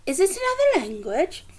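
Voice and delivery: whispered, wondering question; curious whisper over the paper; hushed question. Acted. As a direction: breathe it like a secret. Missus Silver wonders, unvoiced.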